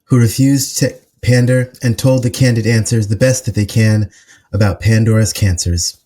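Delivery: measured, rhythmic poetry recital; solemn poem reading with even, deliberate cadence; spoken word poem. Acted. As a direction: deliver it as spoken word, pausing between phrases. Performs own written poem.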